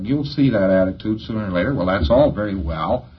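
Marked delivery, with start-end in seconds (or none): 1.8-3.1 indulgent shrug. Retold or imitated. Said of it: "has sort of this attitude".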